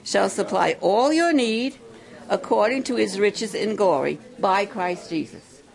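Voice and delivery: preacher repeats the verse aloud for the campers; scripture reading. Shown as a demonstration. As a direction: proclaim it clearly for them to repeat. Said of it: "I'll say it again".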